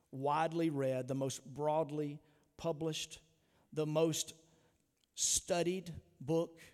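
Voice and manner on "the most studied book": slow emphatic close. Real, not acted. Slowed climax of a list.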